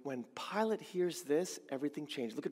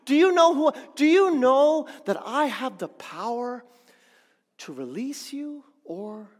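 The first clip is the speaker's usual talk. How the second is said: loud, much higher, furious; indignant Pilate; 8 semitones higher, 9 dB louder than usual. Acted. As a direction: shout his power at the prisoner. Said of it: "But he's asking".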